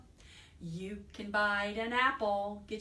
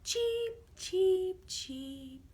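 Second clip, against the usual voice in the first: high chirping bird cheeps; bird chirps; 10 semitones higher, much slower than usual. Acted. Birds sing lullaby.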